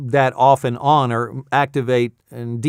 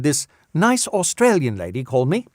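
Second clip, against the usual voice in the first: attempted Australian lady's accent, badly missed. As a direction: try an Australian accent and miss. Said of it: "do an Australian woman's, uh, character voice".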